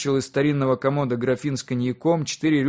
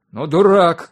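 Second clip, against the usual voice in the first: loud, higher-pitched angry outburst; shouting; 4 semitones higher, 9 dB louder, slower than usual. A narrator's reading. Father berating his honest son, shouting. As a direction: shout it at him in exasperation. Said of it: "крикнул Константин Константинович".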